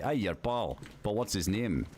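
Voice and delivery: lightly put-on Scottish questioning; Scottish accent. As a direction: imitate a really Scottish dude asking. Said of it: "this really Scottish dude".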